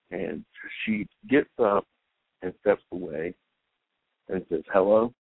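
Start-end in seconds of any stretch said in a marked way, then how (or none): 4.7-5.1 curt, clipped greeting; terse hello. Retold or imitated. Woman answering her ex's call, tersely annoyed. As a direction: snap a cold hello into the phone. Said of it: "very tersely".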